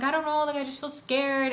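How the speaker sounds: high, mildly whiny imitation of crying self; retold tearfulness. Daughter crying to mom on phone, imitated tearfulness. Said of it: "I start to cry".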